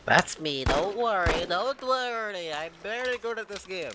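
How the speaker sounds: hammy fake Russian accent; lightly put-on Russian accent; bad Russian accent. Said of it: "That is the worst Russian accent I've ever heard".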